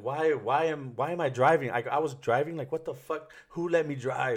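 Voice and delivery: high, imitated wail of self-blame; retold tearful protest. Man retelling asking who let him drive, mock tearful. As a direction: plead in disbelief, as if tearful, without real sobs. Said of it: "And I just started crying".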